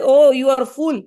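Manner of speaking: stern scolding. Acted. Guru scolding the disciple.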